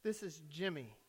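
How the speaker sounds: put-on very soft, low-pitched child; little boy speaking barely aloud; very small voice. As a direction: answer in a tiny, hushed voice. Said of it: "still a very small, silent voice said".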